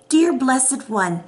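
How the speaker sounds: slow, lofty fake-psychic greeting; mock mystic greeting. Mocking scam psychics who DM followers, slow lofty greeting. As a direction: parody a scammer's syrupy blessing. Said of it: "I don't even talk like that".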